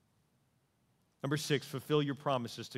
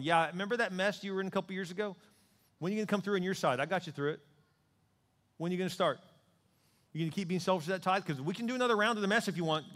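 fast, higher stern voice of God; God's rebuke; 4 semitones higher, faster than usual. Acted. Preacher voicing God scolding a tither, fast and stern. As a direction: press the sinner hard, quickly. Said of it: "And God's going".

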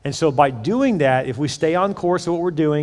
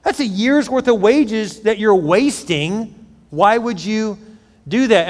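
higher, indignant protest over wasted money; upset Judas; 4 semitones higher, slower than usual. Retold or imitated. Judas scolds the woman for wasting perfume, indignant. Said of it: "He's upset".

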